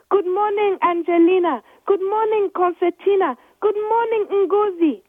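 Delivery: high, loud cheerful greetings across the gate; shouting. Acted. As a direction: shout each good morning over the gate. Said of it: "Anna Hibiscus shouted".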